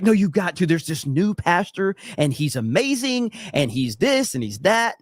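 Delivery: lilting, enthusiastic sales pitch; mild mock gushing; lightly voiced gushing mom. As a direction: imitate a mom talking up her favorite pastor. Acting out mom urging church visit.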